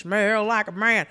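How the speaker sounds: mock macho. Friend echoing the hero's vow, slow mock macho. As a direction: drag it out like a tough guy. Repeats manly line slowly.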